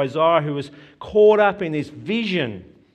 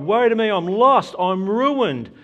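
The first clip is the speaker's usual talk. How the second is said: loud, higher cry of woe; anguished cry; 4 semitones higher, 4 dB louder than usual. Acted. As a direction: wail it like a man undone. Repeating Isaiah's cry.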